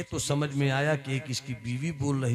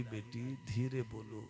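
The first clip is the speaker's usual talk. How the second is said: soft hush; 4 semitones lower, 11 dB quieter than usual. Acted. Saint hushing again.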